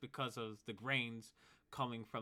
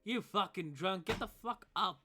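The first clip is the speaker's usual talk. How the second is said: put-on angry drunk shout; 8 semitones higher, 6 dB louder than usual. Blacksmith yelling at drunk to get up, loud and angry. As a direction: yell it high and loud at the sleeper. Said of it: "the blacksmith says".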